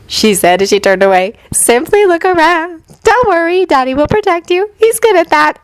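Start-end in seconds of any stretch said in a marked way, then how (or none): 1.5-5.6 put-on high, airy girlish voice; light and unbothered, half elsewhere; dreamy voice. A narrator's reading. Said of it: "in a dreamy voice".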